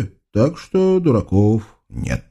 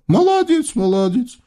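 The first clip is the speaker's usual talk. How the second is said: high mumbled praise; muttering sultan; 13 semitones higher than usual. Acted. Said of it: "пробормотал султан Халил".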